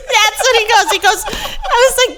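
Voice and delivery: high, loud laughing retelling; giggling through the words. Real, not acted. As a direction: crack up while telling it. Laughing while retelling dad story.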